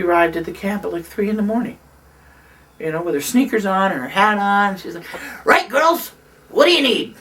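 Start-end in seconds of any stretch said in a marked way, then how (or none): 5.5-7.1 big commanding voice, pushed up and forceful; brisk, take-charge impersonation of a powerhouse woman; Bella Abzug. Retold or imitated. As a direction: imitate a forceful organizer rallying the troops. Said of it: "she had that really deep".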